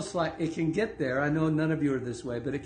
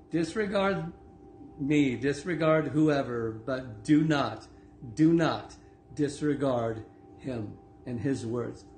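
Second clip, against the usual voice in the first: slow, weighty reading of scripture; slower than usual. Acted. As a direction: lean on each word like a sermon. Reads Jesus' words slowly.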